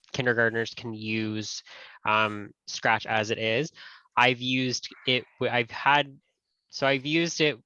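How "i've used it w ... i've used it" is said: stumbling restarts on the words; stuttering. Real, not acted. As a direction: trip over the words, restart twice. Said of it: "I'm stuttering a little bit".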